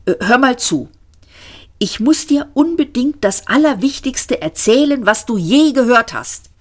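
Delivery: insist, it's the most important thing; Ford, insistent. Acted. Ford insisting he must tell Arthur now, urgent.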